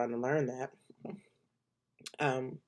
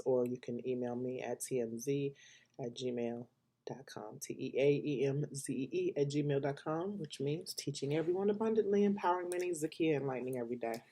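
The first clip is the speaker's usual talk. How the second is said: talking around a blunt; words through a blunt held in lips; blunt in mouth. Real, not acted. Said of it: "saying that with a blunt in my mouth".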